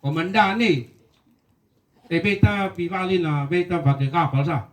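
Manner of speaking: light Rote dialect lilt, easygoing; Rote accent. Retold or imitated. Soldier asks his commander in a Rote accent. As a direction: speak it in a mild Rote accent. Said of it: "dengan logat Rote".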